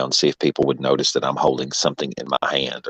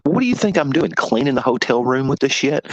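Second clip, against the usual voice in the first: retold indignation; 9 semitones higher than usual. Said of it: "And I was like".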